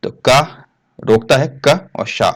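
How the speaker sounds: क and शा spoken slowly, kept apart; sounding out slowly. Shown as a demonstration. Teacher breaks क्ष into क and शा, slow. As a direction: build क्ष from क plus शा, slowly. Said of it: "ये के के साथ श की आवाज है".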